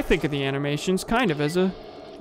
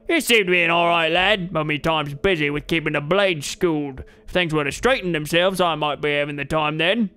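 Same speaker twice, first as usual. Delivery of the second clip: lightly voiced hearty old brawler; a friendly bearded fighter greeting a lad; burly trainer. McRae voice again.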